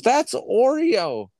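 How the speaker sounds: high, slow mock girlfriend; girlfriend's voice. Girlfriend naming the found cat, high slow voice. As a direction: drawl it out like his girlfriend. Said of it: "she goes".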